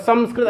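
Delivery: "संस्कृत" with a full m, sam-skrit; full m sound. Shown as a demonstration. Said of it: "जो आप मकार का शुद्ध उच्चारण कर देते हैं". ("संस्कृत" में पूरा मकार, सम्स्कृत)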